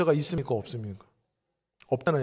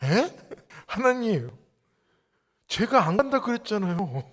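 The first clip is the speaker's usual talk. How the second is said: 1 bewildered Moses. Retold or imitated. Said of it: "아마 황당했을 거예요".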